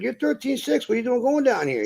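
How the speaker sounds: can't believe what he's seeing; the trucker questioning him, high incredulous retelling; retold disbelief. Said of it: "I'm like".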